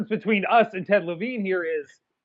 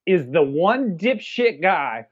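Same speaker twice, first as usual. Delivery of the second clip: mock proud small-town yokel, higher; stubborn hick voice; 5 semitones higher than usual. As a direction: ham up the stubborn local who won't sell. Mocking prideful small-town guy.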